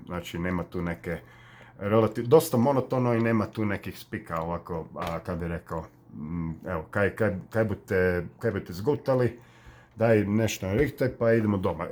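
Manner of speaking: monotone Karlovac Croatian dialect. Shown as a demonstration. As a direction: talk like a Karlovac local, without much tune. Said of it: "they talk like this".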